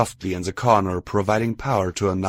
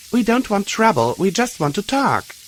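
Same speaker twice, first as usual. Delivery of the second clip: higher, louder peacemaking call; raised reassurance; 12 semitones higher, 4 dB louder than usual. A narrator's reading. Blackjack calls to guards behind sandbags, raised and reassuring. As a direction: call over, keep it friendly.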